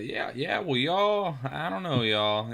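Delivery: high, loud hammed-up Southern drawl; southern accent. Caller faking a Southern accent to tech support, southern accent. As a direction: ham up the Southern y'all. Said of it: "went back into".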